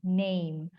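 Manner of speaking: "name" with an ay glide, neym; "name" sliding from e to i; correct NAME. Shown as a demonstration. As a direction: model "name" as a long neym. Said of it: "kayak gitu deh pengucapannya".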